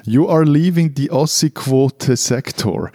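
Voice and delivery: slow, announcer-style warning like a checkpoint sign; mock border sign. Host jokes to colleague about leaving the quota zone, mock announcement. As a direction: read it like the old sector sign at the Wall.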